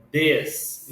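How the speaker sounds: "this" with short open vowel and final s; short-i reading. Shown as a demonstration. Teacher reading out the written word for students, short vowel in "this". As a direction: say "this" as DHESS, short and clear. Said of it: "Esse aqui se lê".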